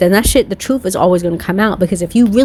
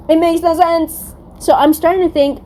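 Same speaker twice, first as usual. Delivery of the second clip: amused; 9 semitones higher than usual. Real, not acted. Still laughing high after impression.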